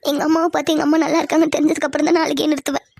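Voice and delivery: fast, tearful protest; tearful insistence. Acted. Refusing to stop crying until mother is seen, tearful insistence. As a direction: insist quickly through acted crying. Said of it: "கொஞ்ச நேரம் அழுகாம இரு".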